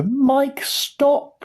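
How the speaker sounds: very high, urgent cry; panicked shout. A narrator's reading. Mother calling her son back, panicked shout. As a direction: shout high as if to halt a child. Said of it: "shouted Missus T V".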